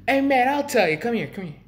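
loud, high impression of a Philly burger worker; Philly guy. Burger worker beckoning a customer, high Philly-guy holler. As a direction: imitate a Philly guy calling someone over. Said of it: "he must have been from Philly".

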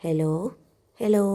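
put-on sulky older sister on the phone; hurt complaint. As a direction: call out, a little wounded. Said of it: "പരിഭവം കലർന്ന സ്വരം".

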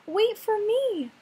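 small high pleading voice; pleading little fish. Acted.

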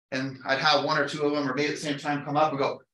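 usual speaking voice

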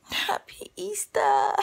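high, drawn-out holiday greeting; festive greeting. Real, not acted. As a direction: sing out the greeting, stretching it.

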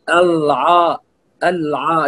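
الع- with a thick, dark l and ع; heavy lam and ayn. Shown as a demonstration. Teacher shows the common error, heavy الع-. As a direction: weigh down both letters of الع- as a mistake. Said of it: "كأنه فخم اللام وفخم العين".

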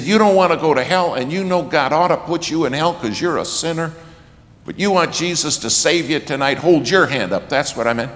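loud, high, fast preacher's shout; the whole plea again, now at full force. Retold or imitated. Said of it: "only louder".

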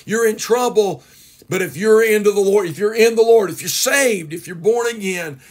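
emphatic, exhorting preacher; rousing preaching. Real, not acted. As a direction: drive it home to the congregation. Preacher applies story to church family.

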